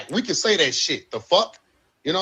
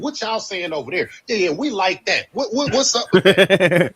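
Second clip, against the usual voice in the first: mocking wannabe. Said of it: "You just had to reach over".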